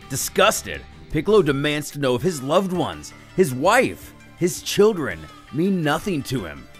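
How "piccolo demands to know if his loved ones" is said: ordinary delivery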